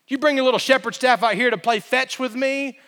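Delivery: a hint of a jeering giant; mocking taunt. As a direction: belittle the boy with a smirk. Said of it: "He's mocking him".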